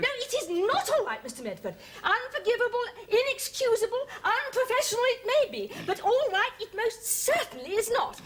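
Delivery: overwrought self-reproach. Acted. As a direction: insist dramatically on your own guilt. Overwrought apology to her boss.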